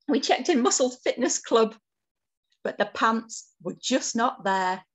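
put-on lively, lilting read-aloud for children; picture-book narration. A narrator's reading. Author reads picture book to children, lively storytelling. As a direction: tell it as a bedtime-book adventure.

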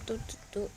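puzzled beeping echo. Acted. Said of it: "งงเนอะ".

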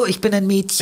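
put-on high, sweet little-girl voice; hammed-up girlish squeak; mock girly voice. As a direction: pretend to be a prim little girl. Mocking girlish voice.

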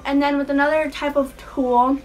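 retainer-muffled speech; slight lisp from a retainer; talking weird. Real, not acted. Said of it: "I'm talking really weird".

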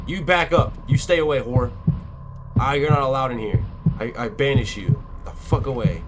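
frightened yell at the killer; scared horror game streamer. Real, not acted. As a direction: shout him away in a panic.

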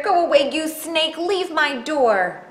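loud, fast, high-pitched panic; frightened Square. Acted. Square ordering a snake off the doorstep, panicked. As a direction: shoo it away in a fright. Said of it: "Square was afraid of snakes".

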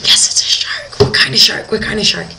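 acted-out burst of breathy, whispery excitement; hushed-voice exclaiming as if spotting something thrilling; excited reenactment. Diver reacting to a shark sighting, excited.

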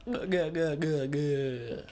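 alien gabbling. Retold or imitated. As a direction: squawk like an angry alien. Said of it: "And he's like".

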